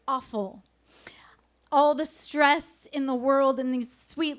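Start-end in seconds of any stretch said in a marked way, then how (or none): 0.1-0.6 whispered regret. Real, not acted. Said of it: "I felt".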